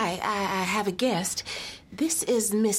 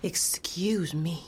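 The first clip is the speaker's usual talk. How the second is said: whispered; 2 semitones lower, slower than usual. Acted. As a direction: slip away in a whisper. Mother leaves quietly.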